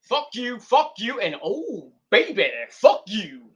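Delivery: hammed-up mocking taunt. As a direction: taunt the haters playfully. Mock taunting sing-song.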